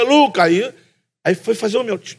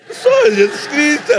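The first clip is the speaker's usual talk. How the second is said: laughing claim; 14 semitones higher, 3 dB louder, slower than usual. Retold or imitated. Answering the barista.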